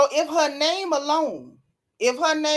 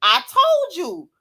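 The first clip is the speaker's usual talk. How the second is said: overtaken mid-talk; 10 semitones higher, 5 dB louder, slower than usual. Real, not acted. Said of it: "God dang it".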